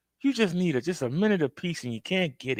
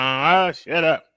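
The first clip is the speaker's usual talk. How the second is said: irritated snap; 4 dB louder, slower than usual. Retold or imitated. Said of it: "babysitters throwing the baby down".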